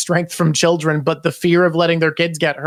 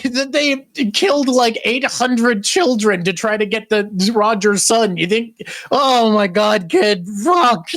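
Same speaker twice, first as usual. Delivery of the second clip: higher-pitched, stretched disbelief; exasperated scolding; 5 semitones higher than usual. Acted. Scopper berating the boy for risking his life, exasperated. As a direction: lecture the kid in rising exasperation. Voicing Scopper's panic at kid.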